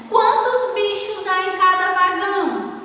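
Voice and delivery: high, even question tune falling on "vagão"; questioning intonation. Shown as a demonstration. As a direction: lift "Quantos bichos" and hold it. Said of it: "porque eu estou perguntando".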